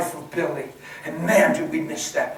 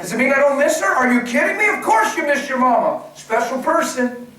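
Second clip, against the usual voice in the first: high, loud incredulous preaching; are you kidding me, full force; emphatic; 9 semitones higher, 7 dB louder than usual. Real, not acted.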